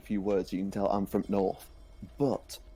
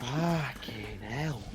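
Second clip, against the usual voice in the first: put-on broad northern accent; 3 semitones higher, 4 dB quieter, much slower than usual. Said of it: "broad northern accents".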